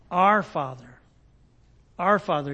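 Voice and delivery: weight the word \"Our\" each time; stress on Our. Shown as a demonstration. Preacher showing the congregation Jesus says \"Our\", stressing Our. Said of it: "He doesn't say, "My Father".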